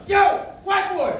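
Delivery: loud, high, drawn-out stadium yell; guy yelling. Retold or imitated. A fan yells across the stadium, high and loud. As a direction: call out across the stands. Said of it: "I hear this guy yell".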